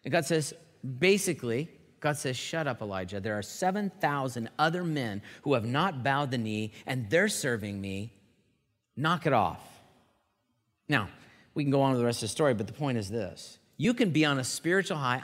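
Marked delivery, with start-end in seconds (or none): 2.4-9.6 a lightly voiced stern God cutting him off; God telling Elijah to quit, low and firm.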